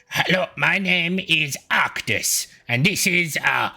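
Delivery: bow and introduce yourself formally; polite penguin father. Acted. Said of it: "the blue penguin bows and he's like".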